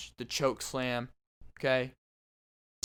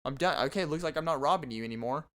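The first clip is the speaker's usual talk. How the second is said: high, giggling pleas to stop; giggly robber; 3 semitones higher than usual. Pretend. Tickled robber giggles high, begging to stop. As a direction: laugh through it while begging. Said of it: "He's like".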